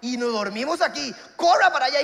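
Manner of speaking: mock urgent shout to run; urgent order. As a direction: rush her back to the boat. Urging to run back.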